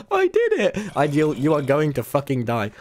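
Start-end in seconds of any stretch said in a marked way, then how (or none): 0.1-1.0 triumphant. Real, not acted. Triumphant high.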